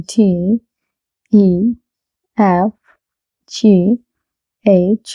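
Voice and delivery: English letters "এ" to "এল", each said separately and carefully; correct pronunciation. Shown as a demonstration. Teacher repeating the alphabet for learners, correct pronunciation. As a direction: recite letter by letter with long vowels and pauses. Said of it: "আমি আবার বলছি".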